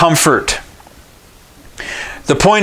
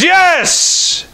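anxious yes. Retold or imitated. Anxious father answers the stranger.

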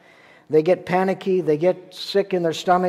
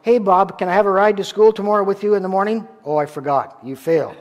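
mocking sibling; 3 semitones higher, 4 dB louder, faster than usual.

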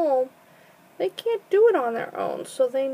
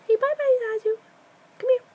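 singsong goodbye; 9 semitones higher, 3 dB louder, faster than usual. Real, not acted. High singsong goodbye to bird.

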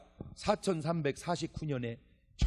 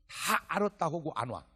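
ordinary talk, nothing marked

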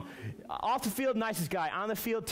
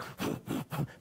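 a silent nervous laugh, all breath; nervous breathy laugh; 4 dB quieter than usual. Retold or imitated. Reenacting his frozen face to the youth group, silent nervous laugh. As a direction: hold back a panicked laugh. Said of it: "my face is like".

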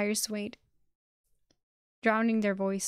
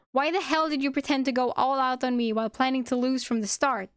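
loud, raised outburst starting high; pained shout; 4 semitones higher, 6 dB louder than usual. A narrator's reading. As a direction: shout the accusation with pain in the voice. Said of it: "He looked at her and shouted".

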